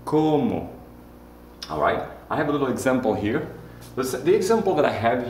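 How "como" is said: "Como" with a long, stressed first o; lengthened first o. Shown as a demonstration. Teacher demonstrating the accented vowel, first o of "Como" drawn out. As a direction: hold the first o of "Como" a little longer. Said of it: "make it last a little bit longer".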